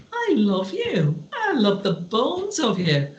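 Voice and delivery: slow, heartfelt declaration; genuine affection. Shown as a demonstration. Giving someone a compliment from the heart, genuine affection. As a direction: say it slowly and mean it. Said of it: "to say with genuineness to someone".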